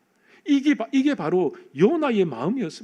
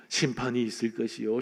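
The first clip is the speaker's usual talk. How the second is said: 심판이 있을 것이요 muttered low and soft, without conviction; grudging prophet mumbling his warning, lower and softer; half-hearted proclamation; 8 semitones lower, 6 dB quieter than usual. Retold or imitated. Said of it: "그는 근성근성 거리를 다니면서".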